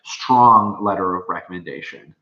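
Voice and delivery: "strong" stretched out with a push; stress on strong. Shown as a demonstration. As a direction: lean on the word "strong". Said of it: "Emphasize great or".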